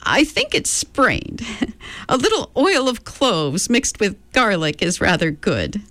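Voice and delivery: put-on chirpy, batty old lady; a hint of a dotty old woman; eccentric old woman. Mrs Whatsit quotes, raised voice.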